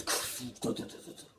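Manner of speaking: rapid stuttering "t-t-t" rattle; imitated unrolling noise. Showing toilet paper opening like the manga, rattling sound effect. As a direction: mouth the sound of paper spinning out. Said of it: "like that".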